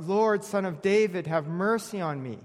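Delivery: lightly voiced woman pleading with Jesus; crying out. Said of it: "she comes to Jesus crying out".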